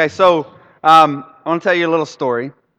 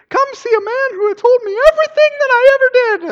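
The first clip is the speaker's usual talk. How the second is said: very high, loud proclamation; excited calling out; 6 dB louder, faster than usual. Acted. Samaritan woman to her city, high excited shout. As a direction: cry it out to a whole town.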